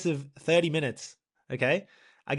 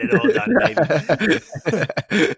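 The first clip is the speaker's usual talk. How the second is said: defiant; 5 semitones higher, 9 dB louder than usual. Retold or imitated. Defiant quote to dad.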